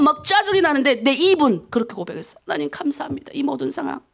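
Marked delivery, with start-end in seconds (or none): 2.5-4.0 soft, retold prayer under the breath; murmured prayer. Pastor retelling his night prayer to God, murmured. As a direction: say thanks quietly, as if praying alone.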